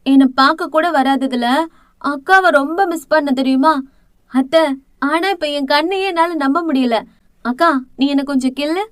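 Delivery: put-on a girl who can't believe her eyes; surprised. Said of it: "ஆச்சரியமாக சொன்னவளுக்கு".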